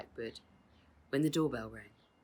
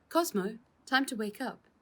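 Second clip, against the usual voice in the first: raised voice, higher and louder; calling out; 8 semitones higher, 3 dB louder than usual. A narrator's reading. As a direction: call him awake across the garden. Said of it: "said Father".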